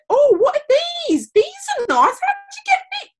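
very high, loud mock gushing; exaggerated high-pitched nosy stranger; ignorant admirer. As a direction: mimic someone cluelessly cooing over hair. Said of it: "followed by some kind of ignorant".

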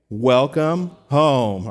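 slow, drawn-out heartfelt welcome; welcoming. Real, not acted. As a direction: stretch it out slowly to embrace newcomers. Greeting first-time church guests.

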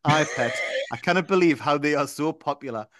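easing off the Geordie a little; lighter Geordie accent. Acted. Reading on in a milder Geordie accent. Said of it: "I don't know why I'm putting the accent on".

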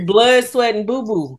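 giggling through the last word; laughing. Real, not acted. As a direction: laugh the punchline out. Laughing punchline.

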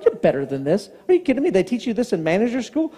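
talking down, pitch jumping; mock pastor put-down; angry, condescending pastor. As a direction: scold like a disappointed preacher. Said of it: "it's a very condescending way".

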